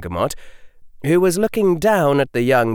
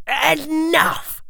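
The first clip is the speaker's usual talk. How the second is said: sharp cry, much higher. A narrator's reading. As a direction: cut him off with one cry. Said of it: "cried the Lord Malfoy".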